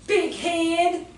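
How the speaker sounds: lightly imitated Virginia twang; a touch of Southern drawl in a boy's insult. Mad little Virginia boy insulting someone, mild southern twang. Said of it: "southern twang, and he goes".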